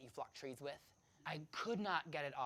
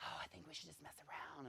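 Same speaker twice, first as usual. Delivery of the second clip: soft suggestion; 11 dB quieter than usual. Retold or imitated. Girl propositions him in bed.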